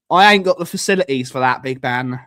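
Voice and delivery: quick mock-street "ain't got" delivery; casual slang. Shown as a demonstration. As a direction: toss it off fast like a mate. Redoes line in slang form.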